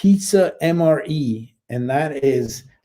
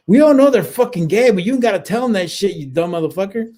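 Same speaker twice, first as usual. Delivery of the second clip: retold exasperated yell; 6 semitones higher than usual. Team leader berating Hayworth about the shorts, mock yell. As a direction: scold him, then trail off in disgust. Soldier retells scolding his teammate.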